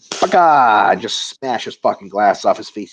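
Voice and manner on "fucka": loud, high mock yell of pain; mock robber yell. Robber in the story yelling as he's hit. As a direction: bark it like a hurt burglar. Robber voiced in retold scene.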